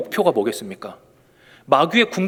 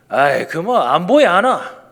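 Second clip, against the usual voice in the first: slow, drawn-out Gyeongsang dialect demo; 4 dB louder, slower than usual. Shown as a demonstration. Preacher demonstrating Gyeongsang dialect to his Seoul congregation, slow. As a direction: say it like a Ulsan local, drawn out. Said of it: "경상도 말 한 번만 제가 보여드릴게요".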